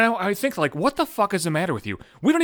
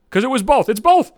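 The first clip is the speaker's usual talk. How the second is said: higher and louder on both; rising outraged emphasis; emphatic insistence; 8 semitones higher, 6 dB louder than usual. Real, not acted. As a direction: hammer home that it's both.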